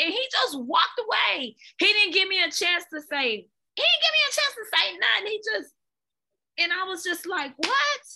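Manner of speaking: high, giggly retelling; laughing while telling. Real, not acted. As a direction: tell it through laughter. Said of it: "it was just so funny".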